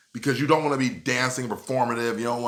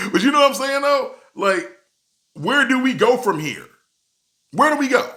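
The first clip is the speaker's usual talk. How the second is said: laughing; 11 semitones higher, 5 dB louder than usual. Real, not acted. Laughing, mock despair.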